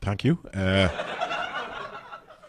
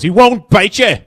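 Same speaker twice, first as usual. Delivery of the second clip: a hint of a tough Belfast man; 8 semitones higher, 7 dB louder, slower than usual. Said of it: "And then he goes".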